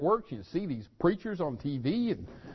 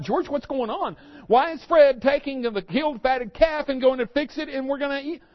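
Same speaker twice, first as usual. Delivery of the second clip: higher, demanding voice of a puzzled son; elder son calling to servant, higher; 6 semitones higher, 4 dB louder than usual. Retold or imitated. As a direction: son questioning a servant, half angry.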